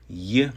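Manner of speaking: "y" said as an isolated English Y glide; English Y sound. Shown as a demonstration. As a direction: sound out "y" as a short consonant, as in English. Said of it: "pronounced just as it is in English".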